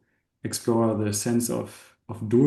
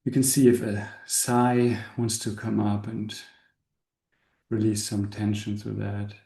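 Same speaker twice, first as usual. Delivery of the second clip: unhurried meditation guide with long pauses; calm, spacious guiding voice; guided meditation. Acted. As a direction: ease the listeners into relaxing, leaving space between phrases. Leads a meditation.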